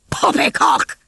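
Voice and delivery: high, indignant outburst; disgusted. A narrator's reading. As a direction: spit it out in disgust.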